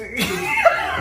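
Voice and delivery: squeaky burst of giggling; high giggle. Real, not acted. Cook cracking up at her own joke, high squeaky giggle. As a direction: let a high giggle escape.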